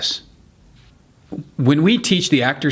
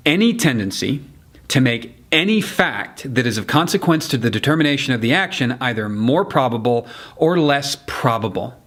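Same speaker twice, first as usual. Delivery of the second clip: deliberate courtroom emphasis on "any", "more probable", "less probable"; stress on any, more, less. Shown as a demonstration. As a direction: set off "any tendency" and "any fact" with pauses. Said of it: "place your emphasis on the words".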